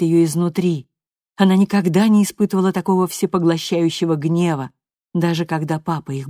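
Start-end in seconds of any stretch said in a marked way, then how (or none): none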